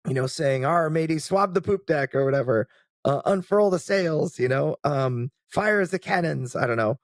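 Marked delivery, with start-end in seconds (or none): 0.6-2.1 pirate voice. Retold or imitated. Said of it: "whatever pirates say". 3.2-4.4 pirate voice. Retold or imitated. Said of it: "whatever pirates say". 5.5-6.5 pirate voice. Retold or imitated. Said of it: "whatever pirates say".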